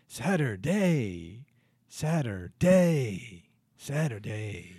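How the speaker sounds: slow, spoken-word Shatner delivery; Shatner-style song. Retold or imitated. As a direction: drag each Saturday out dramatically. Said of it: "Shatner take on a singer".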